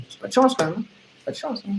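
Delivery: high, mock-pitying sarcasm; sarcastic. Real, not acted. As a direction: pretend to feel sorry, dripping irony. Mocking deputies' voting "mistake.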